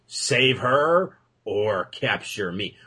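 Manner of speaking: slow, drawn-out villain taunt; sneering panto villain. Pretend. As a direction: taunt like a cartoon baddie. Mock villain gloating quote.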